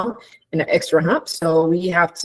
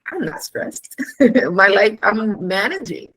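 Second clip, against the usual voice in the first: a hint of indignant denial, mostly pitched up; defensive denial; 3 semitones higher than usual. Patient denying stress to the doctor, mildly indignant. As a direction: brush it off, insisting you're fine. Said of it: "You're like".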